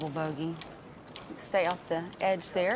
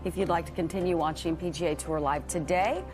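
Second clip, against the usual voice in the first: promo read. Acted. Live coverage promo read.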